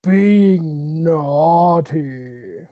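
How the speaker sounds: nephew character voice. Retold or imitated. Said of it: "he always ends it with".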